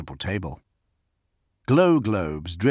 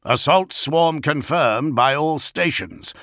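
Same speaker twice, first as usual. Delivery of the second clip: raised, measured alert; urgent report; 6 semitones higher, 3 dB louder, slower than usual. A narrator's reading. Gorod reports to Gilliman under attack, urgent and raised. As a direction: announce it slowly and firmly, pitched up. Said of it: "Gorod reported".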